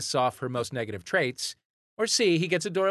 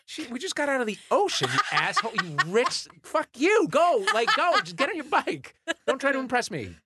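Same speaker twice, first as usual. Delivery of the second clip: high, mock-outraged rant at him; 11 semitones higher than usual. Ranting higher at a triathlete who is showing off. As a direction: rail at the show-off, half joking.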